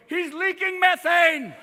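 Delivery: slow, loud, high cartoon dog alarm; talking dog. The family dog, smelling dad, announcing it in a slow loud yell. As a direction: drag it out like a horrified dog. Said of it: "even the dog's going".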